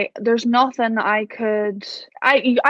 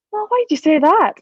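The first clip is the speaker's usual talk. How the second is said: higher and louder, a touch of mock outrage; higher, louder mock-offended question to a stranger; retold indignant surprise; 6 semitones higher, 4 dB louder than usual. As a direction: play back your startled comeback, a little affronted. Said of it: "And I was like".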